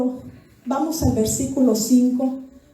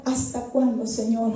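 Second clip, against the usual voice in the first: soft, low lament; a soft prophet's lament; 3 semitones lower, 6 dB quieter than usual. Retold or imitated. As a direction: sigh it out to God. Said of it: "Y el profeta".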